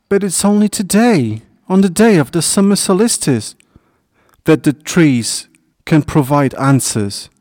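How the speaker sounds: high-pitched pleading call that eases off; crying out. A narrator's reading. Hedgehog calls after his disappearing friend, crying out. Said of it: "He still managed to cry out".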